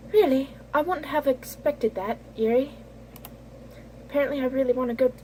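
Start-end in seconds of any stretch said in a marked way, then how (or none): 0.1-2.7 higher, quicker second try at a character; lightly acted, raised character voice; retried character voice. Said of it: "That is not Minoki".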